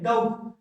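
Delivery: डाउट as "dowt", the B left silent. Shown as a demonstration. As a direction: say डाउट with no B sound. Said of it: "sound नहीं use हो रही है". (डाउट में बी silent)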